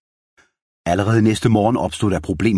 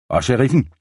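high, sharp demand; shrill, pressing the question; 7 semitones higher than usual. A narrator's reading. Jenny presses her heel on the captive, shrill high demand. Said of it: "spurgte hun skingert".

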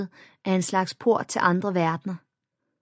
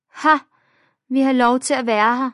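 defiant; 6 semitones higher, 7 dB louder than usual. A narrator's reading. Bully retorts defiantly.

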